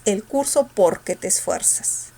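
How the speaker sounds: "Porque" weighted on its first syllable, "Por"; stress on POR. Shown as a demonstration. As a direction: lean on "Por", leave "que" weak. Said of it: "La mayor fuerza está en el por".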